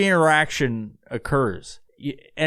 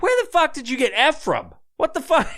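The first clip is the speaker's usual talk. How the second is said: high, incredulous cry breaking into a laugh; shocked disbelief, laughing it off; baffled outburst; 11 semitones higher than usual. Retold or imitated. Baffled retort to odd friend.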